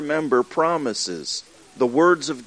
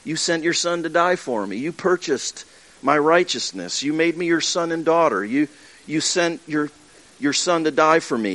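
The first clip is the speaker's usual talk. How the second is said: a touch of sincere prayer; lightly voiced earnest prayer; prayerful; 2 semitones higher than usual. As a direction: speak it to God gently. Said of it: "We remind ourselves and we say".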